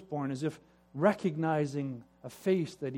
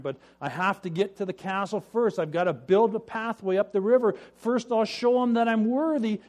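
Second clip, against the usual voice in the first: anxious resolve; 5 semitones higher, 5 dB louder than usual. Acted. Anxious brother in river.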